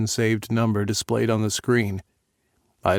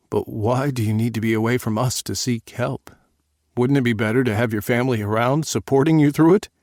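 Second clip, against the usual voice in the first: pleading father; 3 semitones higher, 4 dB louder than usual. Acted.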